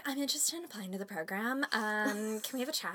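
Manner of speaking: polite soft phone voice; soft and polite, like a call. Retold or imitated. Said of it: "This is my phone voice".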